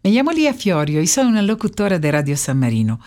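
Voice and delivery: Spanish with a light Italian accent; non-native Spanish, Italian lilt. Real, not acted. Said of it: "Perdón, mi español no lo hablo mucho". (español con acento italiano)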